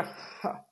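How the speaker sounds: breathless scornful "ja" from the demon; a single mocking huff of a laugh. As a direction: imitate the monster's scoffing laugh. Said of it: "se reía así".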